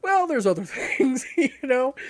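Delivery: brushing off the cheater in a high, mock-polite tone. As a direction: play it sickly sweet to get rid of him. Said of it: "I'm like".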